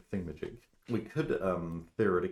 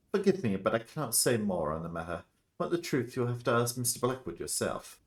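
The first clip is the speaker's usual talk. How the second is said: guarded doctor; 4 semitones higher, 3 dB louder than usual. Acted. Doctor declines to say more.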